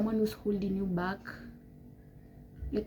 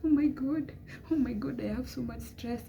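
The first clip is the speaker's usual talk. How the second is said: higher-pitched complaining, acted out; mock moaning; 4 semitones higher than usual. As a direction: imitate someone moaning over stress. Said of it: "Don't just sit there moaning".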